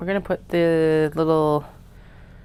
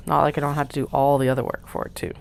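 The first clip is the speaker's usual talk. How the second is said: sarcastic; faster than usual. Real, not acted.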